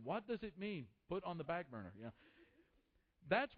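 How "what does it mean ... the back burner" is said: lightly imitated British accent. Puzzled listener questions the preacher's idiom, in a light British accent. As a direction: try a mild, polite British accent. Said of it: "In this really nice British accent".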